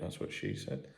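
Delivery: whispered innuendo aside; cheeky whispered joke. Real, not acted. Podcaster joking about a short show, cheeky whisper. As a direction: slip the punchline out in a whisper.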